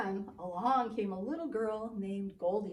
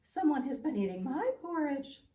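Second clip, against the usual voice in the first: Mama Bear voice; 4 semitones higher, 5 dB louder than usual. Acted. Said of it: "And Mama Bear said".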